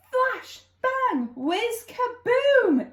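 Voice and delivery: high, punchy flash bang whiz kaboom; excited sound words. A narrator's reading. Narrator reading to child, bursting with the magic sounds. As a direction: pop each sound word out.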